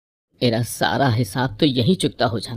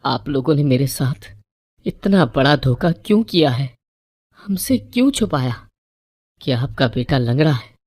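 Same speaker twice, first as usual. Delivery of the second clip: higher, louder tearful protest; crying accusation; 3 semitones higher, 4 dB louder than usual. A narrator's reading. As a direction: accuse them through tears, a bit raised. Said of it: "میں روتے ہوئے بولی".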